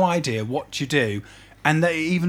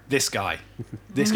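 shampoo advert voice; 2 semitones lower than usual. Pretend. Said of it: "If I was doing a shampoo commercial".

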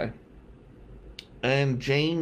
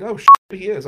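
a much louder burst of imitated shock; mock amazement; 8 semitones higher, 14 dB louder, faster than usual. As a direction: act out girls suddenly convinced. Impressed women, imitated.

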